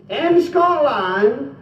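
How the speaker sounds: drawn out, slow start; slow explaining. Shown as a demonstration. Comedian explains Scotland to the English, slow and deliberate. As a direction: lay it out slowly for foreigners. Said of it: "this is the way I explained".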